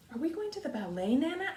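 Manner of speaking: put-on an excited little girl asking her nana; eager child. Child asks grandmother excitedly.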